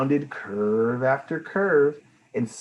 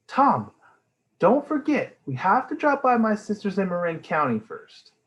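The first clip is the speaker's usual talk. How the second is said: mom voice; 9 semitones higher, 3 dB louder than usual. Acted. Mom reminds Dad.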